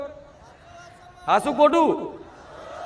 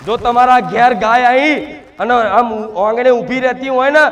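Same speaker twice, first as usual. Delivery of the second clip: loud, forceful promise to the devotees; emphatic preaching; 4 dB louder than usual. Real, not acted. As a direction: raise the voice and press each assurance home. Devotional address, emphatic promise to followers. (જોરદાર ઊંચા અવાજે ઉપદેશ)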